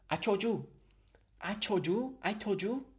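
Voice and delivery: put-on Asian accent, high and short; imitated stereotypical Asian accent. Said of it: "this characterization of the stereotypical Asian accent".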